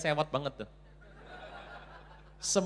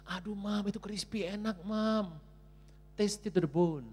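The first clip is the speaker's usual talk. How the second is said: put-on higher-pitched childlike coaxing; pleading child; 3 semitones higher, slower than usual. Child begging mother for crispy chicken, high pleading. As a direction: wheedle Mom for a treat.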